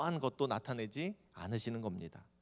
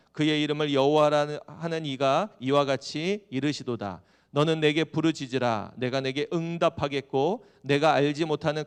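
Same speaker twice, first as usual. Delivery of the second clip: loud, emphatic verse reading; scripture reading; 6 dB louder than usual. Acted. Preacher reading Jeremiah's promise to the congregation, loud scripture proclamation. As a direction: proclaim God's promise, drawing out the last phrase.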